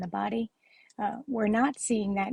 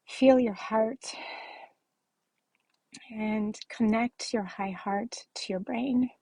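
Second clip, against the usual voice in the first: guided meditation. Acted. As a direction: guide listeners gently into the heart. Leads a heart meditation.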